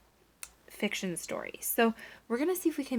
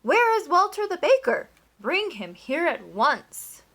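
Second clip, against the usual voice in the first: loud, much higher angry command; furious demand; 7 semitones higher, 10 dB louder than usual. A narrator's reading. Duke demanding the baker, furious and loud. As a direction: summon him in a rage.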